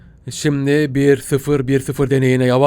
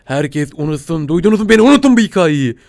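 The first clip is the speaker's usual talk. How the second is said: mock dramatic plea; 4 dB louder than usual. Dramatic plea to forget the story.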